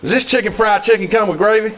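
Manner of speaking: a hint of a Southern diner regular ordering; mild Southern accent. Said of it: "start with your Southern dialect".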